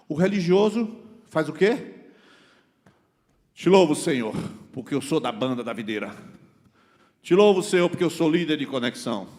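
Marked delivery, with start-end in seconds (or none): 3.5-9.3 loud, puffed-up praise; mock boastful prayer. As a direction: parody a show-off worshipper. Mocking a boastful religious prayer. (imitando uma oração orgulhosa, em voz alta)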